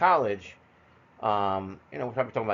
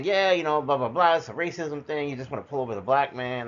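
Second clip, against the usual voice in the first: retold angry yelling; 4 semitones higher, 3 dB louder than usual. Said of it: "I'm actually yelling at them".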